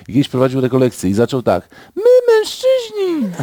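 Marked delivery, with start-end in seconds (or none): 2.0-3.3 put-on, very high-pitched effeminate womanly voice. Act out a well-loved priest opening a retreat, imitating the priest's womanly voice. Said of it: "mówił takim głosem niewieścim".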